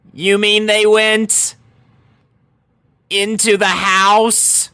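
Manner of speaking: pony sinking into worry; dawning dismay. Acted. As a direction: realize it slowly with dread. Rainbow voiced, dawning dread.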